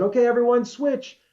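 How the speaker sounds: high, loud retold call to a crowd; calling out a command. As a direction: sing out the order to everyone. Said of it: "I said".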